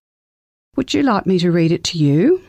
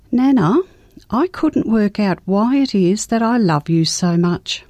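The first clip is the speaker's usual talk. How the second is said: lightly voiced little girl, higher; a hint of a small child, earnest; child's voice; 3 semitones higher than usual. Child voiced in grandma's story.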